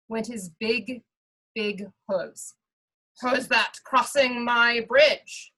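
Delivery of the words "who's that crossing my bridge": louder, slow troll call; great big troll voice. Acted. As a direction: call it out like a troll under the bridge. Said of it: "the troll called out in his great big voice".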